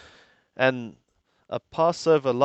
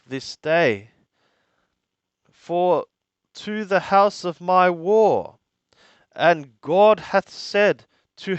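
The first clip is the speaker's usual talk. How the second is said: higher, ringing voice for the Egyptian king's words; a lightly voiced stern Pharaoh; raised royal warning; 4 semitones higher than usual. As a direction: speak as a king sending a stern warning. Translating Necho's warning to Josiah.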